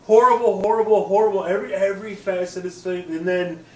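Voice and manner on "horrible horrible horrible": high, loud and laughing; laughing dismay. Real, not acted. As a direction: laugh through the repeated complaint. Laughing verdict on the bad film.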